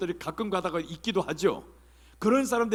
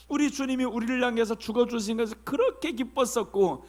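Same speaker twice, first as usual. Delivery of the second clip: ordinary talk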